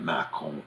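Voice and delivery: Mâcon with a nasal final vowel; Mâcon said the French way, mah-KON with silent N; French pronunciation. Shown as a demonstration. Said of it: "you nasalize it".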